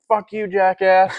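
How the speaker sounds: slow insult. Retold or imitated. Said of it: "I was like".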